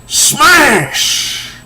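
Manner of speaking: very high, drawn-out comic yell; acted smash yell. She attacks him, high smashing yell. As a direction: yell it like a blow landing.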